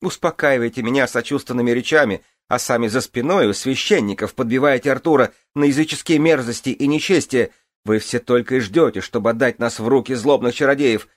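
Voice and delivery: very high, loud screeching tirade; hysterical shrieking. Acted.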